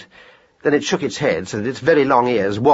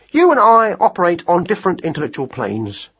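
higher, mildly weary hare voice; patient weariness; 6 semitones higher than usual. Acted. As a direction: explain with a touch of weary patience. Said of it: "tone of patient weariness".

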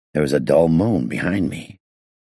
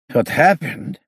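put-on high, strained accented voice; sore, indignant echo of the question in a high foreign accent; muttering gangster; 11 semitones higher, slower than usual. A narrator's reading. Freed gangster throwing the inspector's question back, high indignant mutter. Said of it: "he muttered".

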